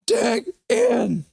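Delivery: high, loud yelled cheer; loud shout. Pretend. Soundboard-like shout, far voice.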